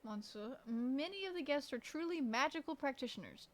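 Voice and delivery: lightly put-on French accent; French-accented character line. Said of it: "try to imitate their accent".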